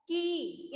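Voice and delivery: कि held with a long ee; long vowel. Shown as a demonstration. Teacher showing students the long matra sound, कि drawn out. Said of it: "लंबा होता है इसका उच्चारण".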